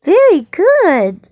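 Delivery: drawn-out, high, sing-song praise; delighted praise. Real, not acted. Parent praising a child's try at penguin, delighted. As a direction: praise slowly with a big pitch swoop.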